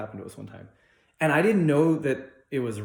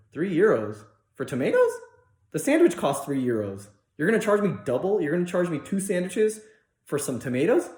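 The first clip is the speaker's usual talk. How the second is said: retold disbelief, louder and higher; incredulous protest; 6 semitones higher, 5 dB louder than usual. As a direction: protest the price in mock outrage.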